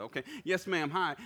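ordinary delivery

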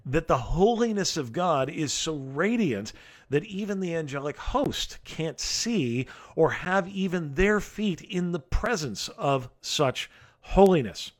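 usual speaking voice

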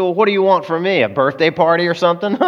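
lightly acted scoff at a friend; scoffing retort. Woman to her friend about her birthday, scoffing.

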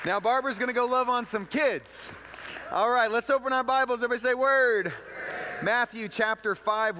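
loud, high shout to the congregation; rallying call. Real, not acted. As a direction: call out to fire up the whole room. Rallying the congregation after prayer.

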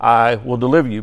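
"deliver" stands out, with "I" left lighter; stress on the verb. Shown as a demonstration. Teacher offering another reading of the verse, stressing "deliver". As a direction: lean on "deliver". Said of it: "on the emphasis of the verb".

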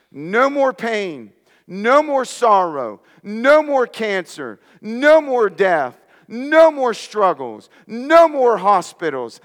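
rousing sermon crescendo; building preacher's litany. Real, not acted. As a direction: climb toward a ringing peak.

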